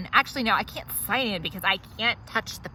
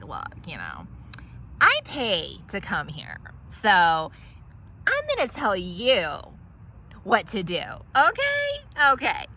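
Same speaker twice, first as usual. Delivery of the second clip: condescending lecture. Acted. Putting the hygienist in her place.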